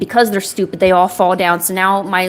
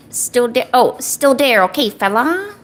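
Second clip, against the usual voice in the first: lightly voiced mock gangster; a touch of movie gangster; 3 semitones higher than usual. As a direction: try out a mobster line. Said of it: "lines to say in my gangster voice".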